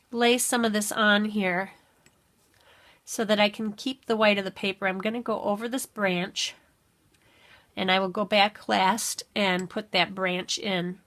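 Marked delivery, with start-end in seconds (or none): 4.9-11.0 talking while chewing gum. Real, not acted. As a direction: speak around a wad of gum. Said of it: "I'm chewing gum again".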